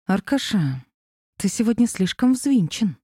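tense words through clenched teeth; through gritted teeth. Acted. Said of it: "сказала я сквозь зубы".

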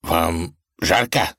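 slow, concerned; solicitous tsar; caring question. Acted. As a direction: gently ask after him. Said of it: "заботливо поинтересовался он".

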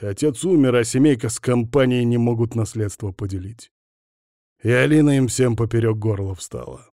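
ordinary delivery, nothing marked

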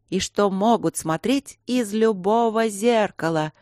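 slow, spooky storytelling voice; creepy butler. Acted. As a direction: pick up the eerie tone. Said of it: "подхватила его тон Рита". (слегка зловещий тон)

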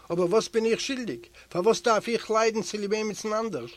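high, loud, indignant cry; shouting protest. Acted. Prisoner protesting to the guard, shouting. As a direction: yell your innocence at the guard. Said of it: "schreit Kolodnik".

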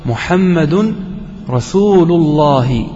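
slow, drawn-out recitation of the verse; Quranic recitation. Shown as a demonstration. Teacher reciting a verse to the class, slow and solemn. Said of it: "قال الله عز وجل".

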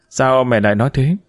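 ordinary delivery, nothing marked

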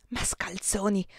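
put-on soft breathy whisper of a shy young woman; a small, shocked whisper; murmured whisper. A narrator's reading. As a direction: breathe the word out under your breath. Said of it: "mormorò la signorina Anita con la sua vocina".

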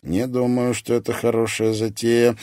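ordinary delivery, nothing marked

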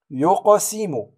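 "يقسم" with the q bounced, yu-q(o)-simu; قلقلة صغرى. Shown as a demonstration. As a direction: echo the q in "يقسم". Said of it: "قلقلة الصغرى". (قلقلة القاف في "يقسم")

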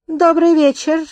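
raspy menacing greeting; sinister rasp. A narrator's reading. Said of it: "просипел он зловещим голосом".

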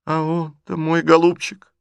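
high, loud, fretful lady of the house; agitated old lady. A narrator's reading. Mother scolding Liza, high and fretful. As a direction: voice Marya Dmitrievna's anxious complaint. Marya Dmitrievna voiced, agitated.

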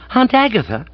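high startled yelp of a question; aghast. A narrator's reading. Master hears his aunt has arrived, aghast. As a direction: blurt it in alarm, pitch shooting up.

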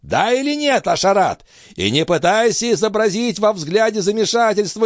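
put-on very high, strained old man's rant; old master ranting. A narrator's reading. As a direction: rail against him with contempt. Althotas rages.

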